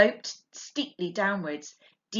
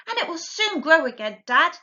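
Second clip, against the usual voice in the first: put-on small fox child voice; 9 semitones higher, 6 dB louder than usual. A narrator's reading. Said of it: "said one of the small foxes".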